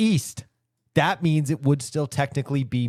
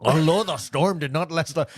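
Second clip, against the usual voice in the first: Irish accent; 2 semitones higher than usual. Shown as a demonstration. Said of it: "Irish accent".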